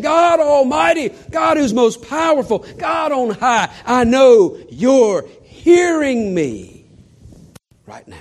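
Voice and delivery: high, loud, slow pleading call; fervent cry to God. Acted. Jesus calling on God Almighty, loud fervent plea. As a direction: build to a fervent cry, then drop.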